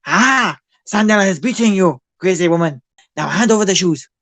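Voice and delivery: high, loud goblin screech demanding shoes; goblin bandit. Acted. Goblin thug screeching at his victim for the shoes. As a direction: squawk it like a greedy little goblin thug. Goblin Sandela mugging a player.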